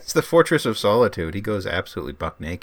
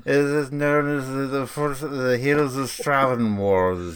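put-on posh British accent; 3 semitones higher, slower than usual. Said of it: "you speak the King's English, sir".

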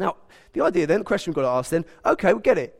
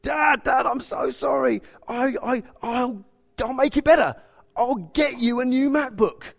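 put-on high, loud, pleading child; frantic and upset; 8 semitones higher, 3 dB louder than usual. Son apologising to dad for the broken MacBook, high and frantic. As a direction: blurt it out like a panicked six-year-old. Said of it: "he goes to me frantic and upset".

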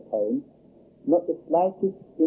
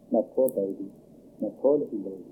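tender mother; 3 semitones lower, 3 dB quieter, faster than usual. Retold or imitated. Mother comforting hurt child.

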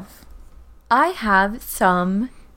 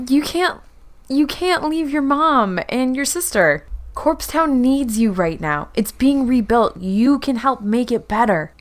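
pleading; 5 semitones higher than usual. Acted. Constance urging Omin to stay with his family, raised pleading voice. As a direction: beg him to stay, voice lifted high.

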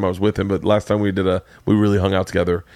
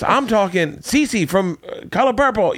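imitating Ralphie; 10 semitones higher than usual. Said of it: "he was just".

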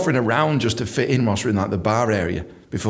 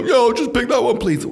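casual order; 12 semitones higher, 5 dB louder than usual. Retold or imitated.

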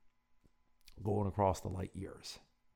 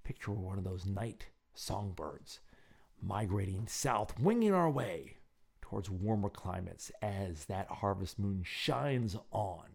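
slow dreamy narration; slower than usual. Acted. Guided imagery passage.

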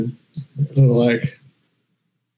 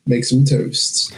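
George Foreman impression; slower than usual. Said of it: "George Foreman".

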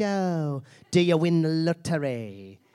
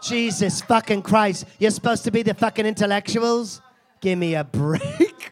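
mock outrage; 3 semitones higher, 3 dB louder than usual. Host berating audience.

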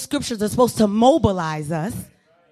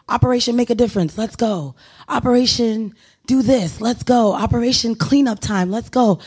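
intercom announcement. Retold or imitated. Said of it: "they'll say something like".

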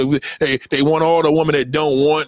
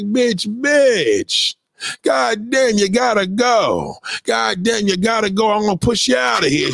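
mock therapist yelling; 5 semitones higher than usual. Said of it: "y'all therapists be like".

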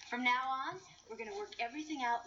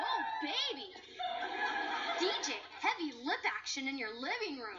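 higher, laughing neighbor teasing; a hint of laughter, teasing the couple; mock Kimmy tease; 5 semitones higher, 4 dB louder than usual. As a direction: ham up the gossip.

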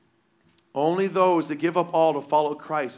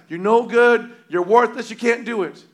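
loud, higher put-down jeers; taunting shout; 5 semitones higher, 8 dB louder than usual. Retold or imitated. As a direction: sneer insults down from the wall. Army putting them down.

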